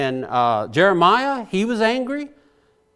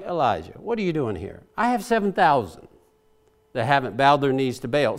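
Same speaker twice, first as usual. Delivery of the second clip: gentle God; 4 semitones lower, faster than usual. Retold or imitated. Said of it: "you gotta love God's gentleness".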